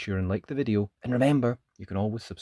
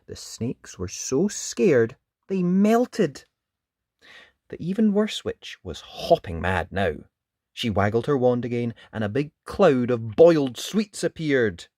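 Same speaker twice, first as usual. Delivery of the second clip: put-on children's storytelling; 3 dB louder than usual. A narrator's reading. Narrator describing the snake attack, animated storytelling. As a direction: read it vividly to small children.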